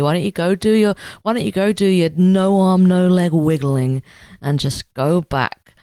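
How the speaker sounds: mock-angry scornful tirade; contemptuous Varus. Varus dismissing Segestes with scorn, mock angry. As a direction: sneer him away, a bit loud. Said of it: "And Varus is like".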